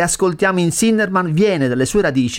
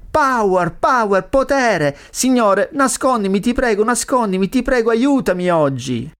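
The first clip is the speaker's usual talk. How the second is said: high, insistent cries for help; raised-pitch theatrical supplication; urgent pleading; 6 semitones higher than usual. Acted. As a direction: beg desperately in an acted prayer. Acting the sinner begging the Lord.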